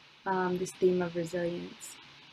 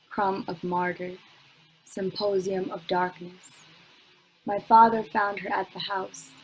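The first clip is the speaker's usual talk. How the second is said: spoken word poem; 4 dB louder than usual. Acted. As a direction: let each "My name is" land, then build. Second poem recited.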